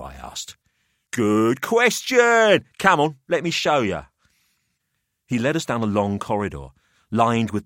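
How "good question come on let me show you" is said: put-on higher, smug older host; a wry businessman weighing up the boys; Pelham's voice.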